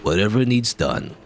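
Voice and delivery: lightly voiced slow janitor; a hint of drawn-out janitor voice; laconic janitor. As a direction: draw it out as an easygoing handyman.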